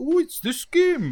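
put-on Swedish accent, drawn-out, slow, pitched very high. Speaker retells a man introducing a game, in a Swedish accent. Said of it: "that's a great Swedish".

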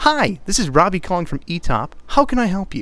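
bright, clear, positive. Demonstrating how to answer the telephone, bright, clear and concise. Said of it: "Just a bright, simple, and concise, positive manner".

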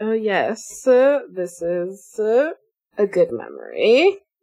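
laughing fondly through words. Voicing Sam remembering with Sky, laughing fondly while speaking. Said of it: "Sam sort of laughs fondly".

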